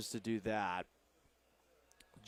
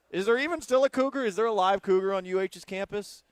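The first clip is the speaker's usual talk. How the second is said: excited question; 7 semitones higher, 6 dB louder than usual. Real, not acted. Excited question about live cougar.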